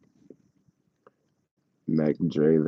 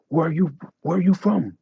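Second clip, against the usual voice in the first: high, louder mock guard questioning; imitating a suspicious guard; security guard voice; 11 semitones higher, 4 dB louder than usual. Airport security questioning him.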